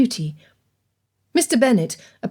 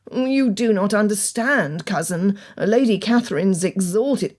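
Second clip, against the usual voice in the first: slow, faltering protest; stammering; slower than usual. Acted. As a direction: sputter it out haltingly. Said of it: "sputtered and stammered".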